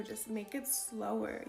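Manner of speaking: slow, unhurried coaching; slow advice. Shown as a demonstration. Coaching viewers to slow down, said slowly. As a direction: model the slowness as you say it. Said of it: "advice to speak slower".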